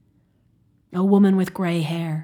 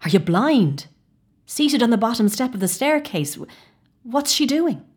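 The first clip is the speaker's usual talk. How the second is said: raised, urgent insistence; insistent; 5 semitones higher, 5 dB louder than usual. Acted. O'Donnell pressing his companion, urgent and raised. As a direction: demand he look, voice up.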